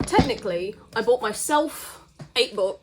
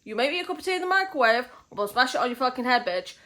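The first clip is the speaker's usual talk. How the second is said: heated rant; 3 semitones higher, faster than usual. Real, not acted.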